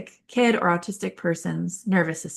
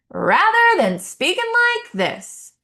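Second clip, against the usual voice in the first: the line swoops high and slow, sung out like a melody; sing-song musical voice; 13 semitones higher, 5 dB louder than usual. Shown as a demonstration. Therapist demoing a musical voice, high and slow. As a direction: make it musical and memorable for the kid. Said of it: "speak in a more musical way".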